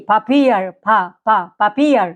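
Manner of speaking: "পাপিয়ার" with a hard, aspirated middle P. Shown as a demonstration. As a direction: puff the P towards "ফা" in "পাপিয়ার". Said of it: "এটা কি একটু কড়া হইতেছে".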